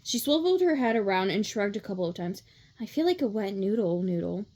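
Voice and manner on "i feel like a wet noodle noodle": loose, dreamy roommate voice; lightly acted drowsy contentment; languid. A narrator's reading. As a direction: say it limp and totally relaxed.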